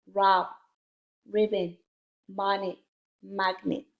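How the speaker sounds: brisker word-list reading, each word in one go. Shown as a demonstration. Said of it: "read the words a little bit faster".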